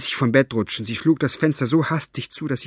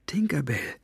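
soft, breathy coaxing whisper; 4 semitones higher, 5 dB quieter than usual. A narrator's reading. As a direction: call a shy creature in a whisper. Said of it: "flüsterte sie".

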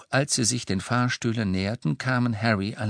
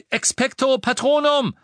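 quick, ringing incantation; confident spell; 6 dB louder than usual. Acted. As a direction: cast it with sure force. Silberner Otter brach.

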